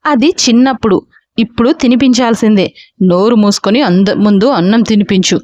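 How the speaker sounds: a father laying down the law; stern order. Acted. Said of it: "అని order వేశాడు రాఘవ సీరియస్గా".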